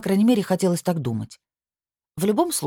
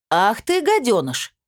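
a furious cook's yell, higher and louder; 5 semitones higher, 4 dB louder, slower than usual. A narrator's reading. A cook catching a thief in the pantry, yelling loudly. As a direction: bellow at the thief, up high and loud. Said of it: "завопил женский голос".

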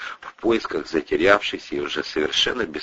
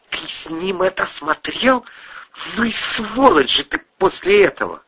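furious wife; 12 semitones higher than usual. Acted. Wife berating her husband, high furious scolding. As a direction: tear into him with disgust.

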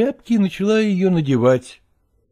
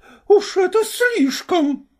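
outraged wife; slower than usual. Acted.

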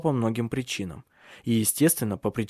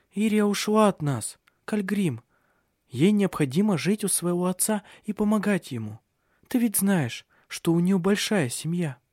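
forced bright tone, higher, hiding despair; feigned cheerfulness; 7 semitones higher than usual. A narrator's reading. Mother hiding despair from her little son. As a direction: keep it falsely light. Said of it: "наигранным голосом произнесла".

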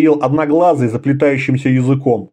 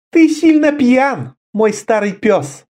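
almost tender; 9 semitones higher, slower than usual. A narrator's reading. Karela to her drunk old comrade, almost tender and slow. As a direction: gently scold an old friend. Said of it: "почти нежно".

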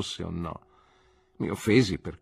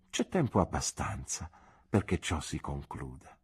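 a touch of the aunt's voice, measured and settled; an old aunt deciding kindly; aunt's verdict. Acted. Aunt gives her considered verdict on young love, measured aunt voice.

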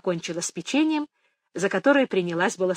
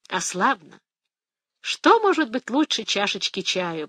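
blissful sigh; 2 semitones higher than usual. Acted. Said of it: "блаженно вздохнула Фиа".

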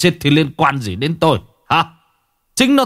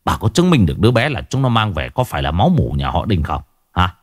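scornful husband, rising higher as he goes; angry challenge; 3 semitones higher than usual. Acted. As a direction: demand proof in a heated tirade. Husband angrily argues with wife. (chất vấn vợ gay gắt)

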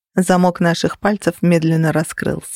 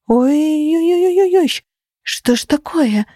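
dizzy groaning; 9 semitones higher than usual. Acted. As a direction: wail it as the room spins. Heroine dizzy, vision swimming.

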